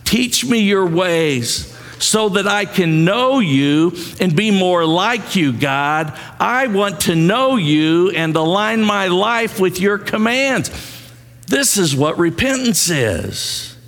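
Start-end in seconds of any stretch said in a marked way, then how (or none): 0.0-10.7 raised pitch, measured prayer for others to repeat; leading congregational prayer. Real, not acted. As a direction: lead the congregation in earnest prayer. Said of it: "Say it with me now".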